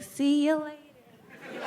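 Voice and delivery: high, slow mom voice; imitating her mom talking to the phone. Mom answering a ringing phone, high and slow.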